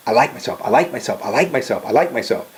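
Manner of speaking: quick, repeated mirror chant; rapid affirmation. Shown as a demonstration. Telling boys to chant to the mirror, rapid affirmation. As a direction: rattle it off, each one the same. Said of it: "say it with enthusiasm".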